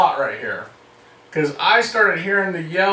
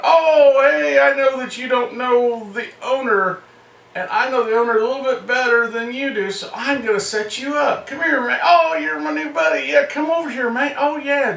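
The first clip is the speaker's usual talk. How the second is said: buddy-buddy schmooze; 5 semitones higher than usual. Retold or imitated. Schmoozing a stranger at party.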